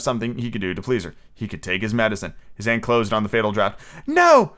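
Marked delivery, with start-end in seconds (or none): 4.1-4.5 very high, loud fairy shriek. A narrator's reading. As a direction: shriek it to stop him. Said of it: "shrieked Tinkerbell".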